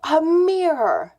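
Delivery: high, loud imitation of a mom; mock scolding call. Mom calls her son to account, imitated scolding call.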